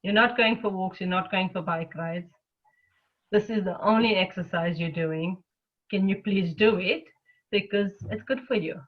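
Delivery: lightly voiced loving mother, easing a reluctant child; gentle loving mother. Mother coaxing her tired self to exercise, gentle and kind. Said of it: "very gently, loving compassionate mother".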